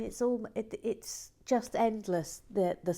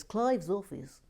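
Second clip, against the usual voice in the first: enthusing quote; 3 semitones higher, 3 dB louder than usual. Retold or imitated. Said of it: "John Parry says".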